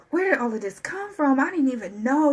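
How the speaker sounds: overwhelmed amazement. Acted. Voicing the listener as blessings rush in, amazed. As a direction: act out being stunned by sudden good fortune. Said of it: "You're gonna be crying like".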